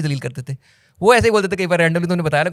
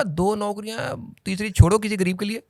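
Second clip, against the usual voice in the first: mock generous; 4 semitones higher, 4 dB quieter than usual. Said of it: "मैं कहा".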